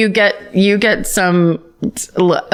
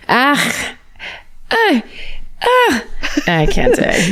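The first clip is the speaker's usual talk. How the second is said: flustered Irish woman; 5 semitones higher, much slower than usual. Pretend. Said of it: "That was perfect".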